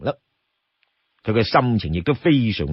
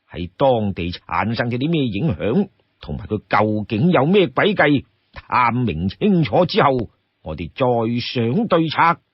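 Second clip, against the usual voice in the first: pondering leader, slightly lowered voice; lightly voiced chief weighing then assigning tasks; deliberate, composed and rather low; Song Jiang; 4 semitones lower than usual.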